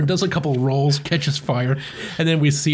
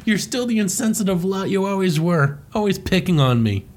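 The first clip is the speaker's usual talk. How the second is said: a lightly raised whiny Wario; Wario complaining; 5 semitones higher than usual. Retold or imitated. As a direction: whine the grudge a little higher. Wario voiced in comic retelling.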